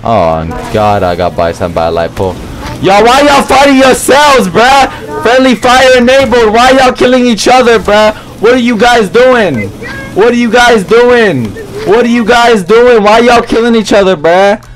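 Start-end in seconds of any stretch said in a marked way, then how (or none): 2.8-14.7 high, insistent pleading yell; exasperated repeated questions, pitched up high; exasperated calling out. Real, not acted. Scolding teammates fighting each other.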